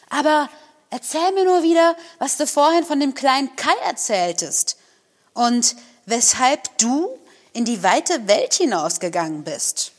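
put-on a wild little robber girl pressing for the story.

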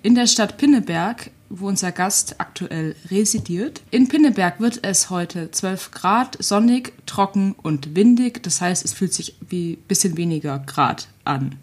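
lightly styled radio weather bulletin; measured presenter delivery; weather report read. Acted. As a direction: read out the local forecast like a presenter.

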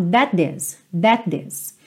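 "that this" run together on one t; joined words. Shown as a demonstration. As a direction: close "that" straight into "this" with no gap. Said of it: "Vai ficar juntinho um T só".

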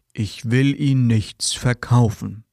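slow, drawn-out salesman line; mock salesman. Salesman assures the customer on the phone, slow mock sincerity. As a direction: lightly play the pushy caller pretending not to sell. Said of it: "Was sagen Verkäufer stattdessen?".

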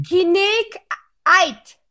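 Kinek Eid read as Die Klinik spelled backwards; backwards speech. Shown as a demonstration. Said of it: "Brettspieltitel rückwärts vorzulesen".

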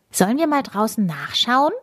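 lightly voiced curious girl; little girl voice. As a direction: ask like a curious five-year-old. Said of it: "fragt Emi Max".

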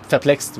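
"verplext" starting with fer-, ending in -t; own coinage. Real, not acted. Podcaster naming his own word for perplexed, coined pronunciation "verplext". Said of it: "wie ich immer sage".

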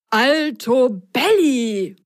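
surprised magician. Acted. Magician shocked to pull socks from his hat. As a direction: blurt it out in shock. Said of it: "entfuhr es dem Zauberer überrascht".

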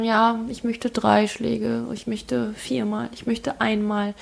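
put-on slow, soft childlike asking; a mild, slow imitation of a small child; child's plea. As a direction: meekly ask for the strikes, slowly. Child asking teacher for strikes.

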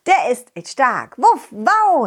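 playful sing-song dog rhyme; bouncy, goofy chant with barks; silly clown. Acted. Dog sings silly intro rhyme.

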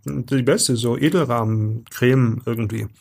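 talking through a mouthful; chewing a praline mid-sentence; chewing while talking. Real, not acted. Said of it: "Jetzt tust du schon wieder rascheln".

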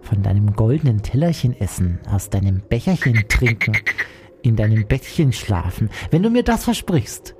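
slow, deliberate frog, swooping in pitch; bargaining frog character. Acted. Frog lists his conditions to the princess, slow character voice. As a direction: draw out each condition as the frog.

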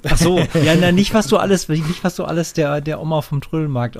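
loud, high teasing burst; excited teasing. Real, not acted. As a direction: tease him with a sudden laugh.

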